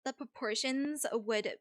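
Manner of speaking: lightly voiced Valley girl; a hint of Valley-girl accent. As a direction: play it as a mild Valley girl. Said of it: "give Mandy a Valley accent".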